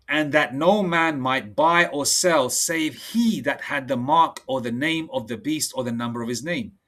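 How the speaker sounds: slow, measured preaching read; solemn preacher reading verse; scripture reading. Acted. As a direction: lay out each line of scripture deliberately. Reads verse seventeen.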